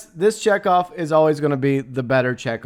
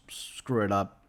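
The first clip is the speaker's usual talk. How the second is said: whisper; 6 semitones lower, 10 dB quieter than usual. Real, not acted. Begging studio not to reboot.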